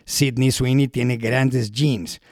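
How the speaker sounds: slow, lightly voiced ad announcer; a hint of an ad voiceover; commercial announcer voice. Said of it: "la voz de un locutor comercial".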